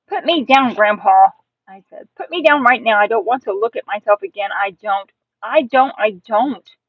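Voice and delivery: insistent, mildly frantic protest; distressed kid refusing; upset child's demand. Acted. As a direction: demand it in a hurry, repeating stubbornly.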